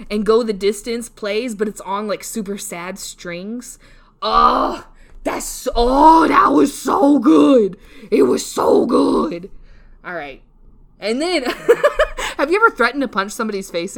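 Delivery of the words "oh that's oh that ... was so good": gushing. Real, not acted. Gushing about sad movie scene.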